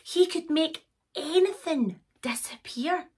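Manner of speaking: lively storyteller with dramatic pauses; storybook reading. A narrator's reading. Narrator reading a magic pony tale to children, storybook style. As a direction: build suspense, rising on the magic. Reads a picture book.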